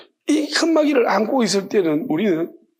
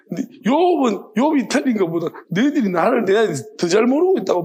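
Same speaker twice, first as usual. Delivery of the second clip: God scolding. Retold or imitated. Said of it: "엄청나게 혼나는 거죠".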